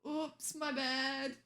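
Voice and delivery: slow, drawn-out sheepish oops; mock apology. Owning up to chat in a slow mock-sorry drawl. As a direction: shrug it off with a slow fake sorry.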